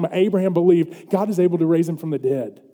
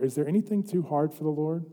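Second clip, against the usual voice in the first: softly posed, hushed question; subdued, reflective preacher's question; quiet question; 7 dB quieter than usual. Real, not acted. Question first posed softly, then proclaimed.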